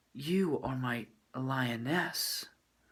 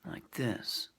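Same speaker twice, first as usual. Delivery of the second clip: pursed lips; 5 dB quieter than usual. Shown as a demonstration. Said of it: "where you purse your lips".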